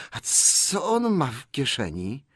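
high, slow, hissed suspicion. A narrator's reading. Gollum presses about Bilbo's pocket, sharp hiss. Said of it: "zasyczał tym razem głośniej i ostrzej".

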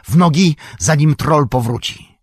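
loud, high urgent shout. A narrator's reading. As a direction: yell at them to run. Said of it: "krzyknął Gandalf". (głośny, wysoki okrzyk)

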